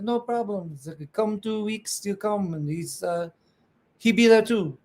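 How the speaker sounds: a hint of Nicholas, easygoing; Nicholas impression. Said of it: "my Nicholas from Bastinelli Knives impersonation".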